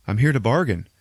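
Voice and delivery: slightly sing-out hero voice; Doctor Strange. Retold or imitated. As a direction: repeat the formal announcement to a giant foe. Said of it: "Doctor Strange comes and flies down and says".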